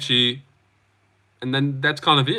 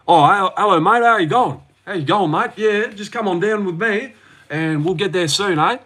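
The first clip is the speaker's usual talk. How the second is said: hammed-up outback Australian greeting; bogan Aussie accent; 4 semitones higher than usual. Shown as a demonstration. Streamer shows chat what a bogan is, broad Aussie accent. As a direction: lay on a real Aussie bogan voice. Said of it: "real Aussie, real outback".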